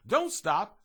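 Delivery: butterfly warning. A narrator's reading. Butterfly urging the resting cookie, high call. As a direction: urge him on, high and bright. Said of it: "said the butterfly".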